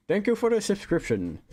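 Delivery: high, punchy sportscaster announcement; sports newscaster voice. Real, not acted. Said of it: "I'm speaking like a sports newscaster".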